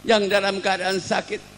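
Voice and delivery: high, loud, drawn-out lament; anguished protest. Acted. Weeping companions protest the whipping of the Prophet, anguished. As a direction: cry it out in dismay. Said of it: "Sedaya nangis, Pak, sak masjid nangis".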